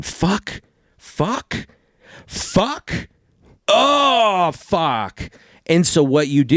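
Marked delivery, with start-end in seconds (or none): 0.0-5.3 high, strained string of panicked curses; panicked swearing. Retold or imitated. Realizing where you fit, mock panic swearing. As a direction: spiral into mock panic, swearing each word higher. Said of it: "and you're going".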